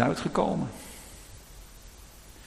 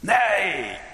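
denial; 7 semitones higher than usual. Retold or imitated. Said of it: "begint hij te vloeken en te tieren".

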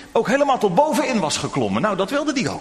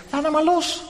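higher, encouraging call upward; father repeating; 8 semitones higher than usual. Acted. Father urges Tim again to let go, encouraging. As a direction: say it once more, firmly kind. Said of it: "toen zijn vader het nog een keer zei".

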